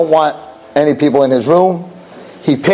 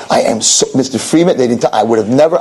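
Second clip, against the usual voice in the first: lowered, stumbling apology; apologetic; 4 semitones lower than usual. Acted. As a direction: stammer out an apology. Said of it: "he's like so apologetic".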